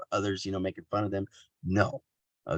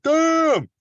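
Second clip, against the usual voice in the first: a loud, high, stunned "Damn!"; shocked exclamation; 7 dB louder than usual. Retold or imitated. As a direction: blurt it out like a shocked audience. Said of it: "They're like".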